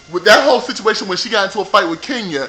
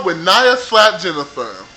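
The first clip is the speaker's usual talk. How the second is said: ordinary talk, nothing marked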